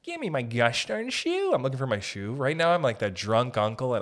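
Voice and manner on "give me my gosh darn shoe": mock cranky voice. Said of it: "people like to go".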